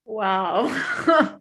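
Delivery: amazed wow. Real, not acted. Reacting to the song.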